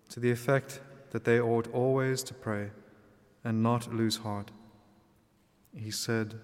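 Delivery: measured liturgical reading voice; gospel reading. Acted. Gospel read aloud at Mass.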